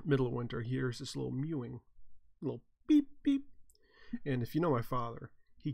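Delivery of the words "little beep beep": small high squeak; kitten beep. Retold or imitated. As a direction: mimic a tiny kitten cry. Imitating kitten sound.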